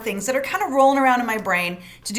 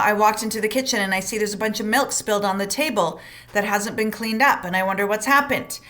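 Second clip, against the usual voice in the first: calm facts; 2 semitones lower than usual. Shown as a demonstration. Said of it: "memorize the words".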